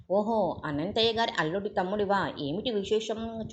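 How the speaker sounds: mocking talk round a clenched cigar; a lawyer lazily brushing off a visitor; offhand, through a cigar. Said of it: "చుట్ట పళ్ళ మధ్యన నొక్కి పట్టి అంటీనంటున్నట్టుగా".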